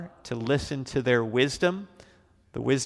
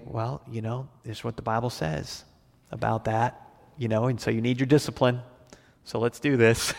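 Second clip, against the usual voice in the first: gentle father. Retold or imitated. Father calmly explaining the Bible to his child before the spanking, gently. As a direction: ease into it kindly like a calm dad. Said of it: "in a very gentle way".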